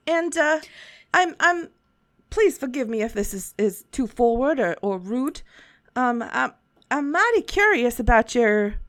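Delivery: lightly voiced friendly old shopkeeper; a folksy merchant, easygoing; shopkeeper Schnick Tick.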